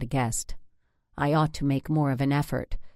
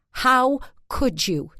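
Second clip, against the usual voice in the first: high, loud, slow wail; 9 semitones higher, 5 dB louder, slower than usual. Acted. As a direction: wail it, betrayed. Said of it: "she wailed".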